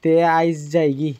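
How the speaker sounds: slow Sylheti farewell; slow Sylheti leave-taking; Sylheti dialect. Shown as a demonstration. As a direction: say goodbye the Sylheti way. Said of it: "Sylheti ভাষা".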